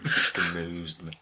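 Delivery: slow, half-denied Scottish accent; mock Scottish accent. Shown as a demonstration. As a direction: drawl it out in a jokey Scottish accent. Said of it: "That wasn't my Scottish accent".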